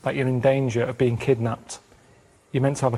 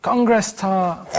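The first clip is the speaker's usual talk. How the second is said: slow code word; 3 semitones higher, much slower than usual. Acted. Acted phone call code word.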